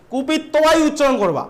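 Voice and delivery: slow, stressing কুপিত্বাই as kupittobai; teacher drilling কুপিত্বাই slowly; slow emphatic repeat. Shown as a demonstration. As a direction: drive home কুপিত্বাই slowly. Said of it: "উচ্চারণ ভুল করবে না".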